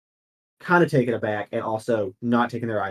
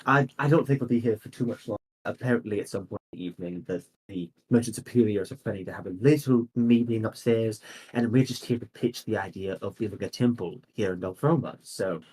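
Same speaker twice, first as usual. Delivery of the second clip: noble lady. Acted. Lady takes leave, explains.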